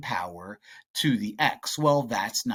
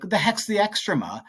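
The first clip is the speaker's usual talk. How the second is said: higher, quick mock-baffled question; puzzled student; 7 semitones higher, faster than usual. Teacher voicing a student stumped by a term, mock-puzzled. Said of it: "and if you're like".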